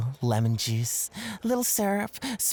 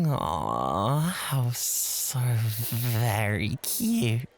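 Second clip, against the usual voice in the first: slow, drawn-out mock sweetness; mocking coo; 5 semitones lower, much slower than usual. Host cooing slowly to tease his bored rival. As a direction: coo it slowly to belittle him.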